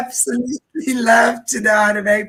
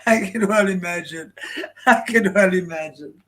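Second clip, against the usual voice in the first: amused laughing; 2 semitones lower, 3 dB quieter than usual. Real, not acted. Amused by church gossip story.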